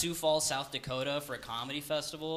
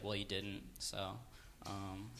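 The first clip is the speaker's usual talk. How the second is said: passive-aggressive; 7 semitones lower, 13 dB quieter, much slower than usual. Retold or imitated. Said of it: "passive-aggressive about stuff".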